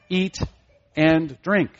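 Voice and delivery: "Eat", pause, then "and drink"; stress on both verbs. Shown as a demonstration. Preacher shows the repeated emphasis, separate stress on "Eat" and "drink". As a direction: set "Eat" and "drink" apart with equal weight. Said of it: "he emphasized the acts of eating and drinking".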